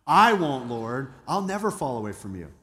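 lightly voiced boastful vow, punched at the start; a touch of cocky self-assurance; arrogant boast. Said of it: "Think of the arrogance".

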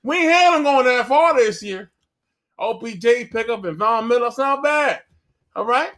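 hammed-up Southern pundit in a cowboy hat; cowboy-hat pundit in a mock Southern accent. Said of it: "screaming in a Southern accent".

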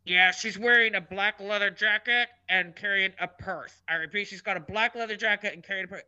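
imitated store PA voice, level and monotone; mock security call over the speakers; loudspeaker announcement. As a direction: read it like a page over the loudspeaker. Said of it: "I hear over the loudspeaker".

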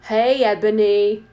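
slow, loud hail; shouted call. Acted. A voice hails Ebony, mock shout. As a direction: call out across the distance, drawing it out. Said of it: "shouted a voice".

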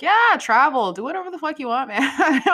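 a hammed-up, careless president; mock Trump. Trump waving everyone off to travel, hammed-up and laughing. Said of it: "Trump, who's like".

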